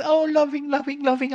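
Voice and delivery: high, sugary mock-sweet voice; sing-song parody of a saintly nun; lightly mocking syrupy tone. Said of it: "that pink chic nun, you know, looks really sweet".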